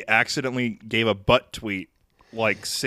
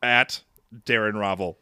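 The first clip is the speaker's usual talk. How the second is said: dictating. Shown as a demonstration. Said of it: "Gus Johnson's last tweet was".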